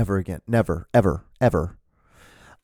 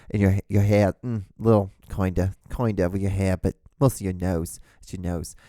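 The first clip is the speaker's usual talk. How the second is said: imitating a bad Eastern accent; hammed-up attempt at an Eastern accent; awful Eastern accent. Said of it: "I know that's an awful Eastern accent".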